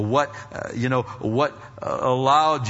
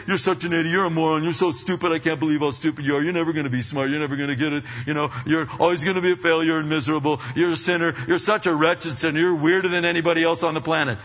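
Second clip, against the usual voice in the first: self-berating; much faster than usual. Retold or imitated. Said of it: "do the self-talk thing and say".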